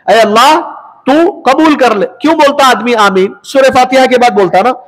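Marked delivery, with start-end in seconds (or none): 0.1-2.1 earnest plea. Shown as a demonstration. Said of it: "आमीन का क्या मतलब होता है?".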